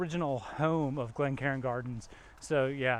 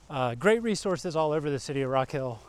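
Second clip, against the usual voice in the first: winded from walking uphill; puffing between words; out of breath; 2 semitones lower than usual. Real, not acted. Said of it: "sorry I'm getting out of breath".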